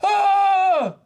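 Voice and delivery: shrieking jackpot winner. Real, not acted. Panicked reaction to scene.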